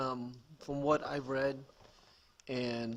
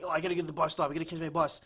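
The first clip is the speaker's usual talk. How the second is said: raised, louder pretend fluster; mock hurried urgency; 3 semitones higher, 5 dB louder, faster than usual. Man acting a Boston commuter at the bus stop, mock urgency. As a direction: imitate a rushed commuter.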